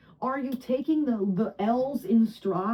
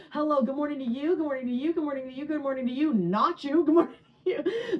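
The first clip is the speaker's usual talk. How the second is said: sing-song "good morning to you" with rising ends; a light mock Tiffany Pollard greeting; Tiffany Pollard bit; 4 semitones higher than usual. Imitating Tiffany Pollard ruining her morning, lightly sing-song. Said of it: "Tiffany Pollack doing it".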